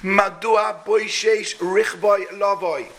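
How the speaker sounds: slow, drawn-out chanted lament; a mother keening for her late son; mother's lament. Acted. Preacher voicing Sisera's mother, slow and mournful. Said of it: "And she says".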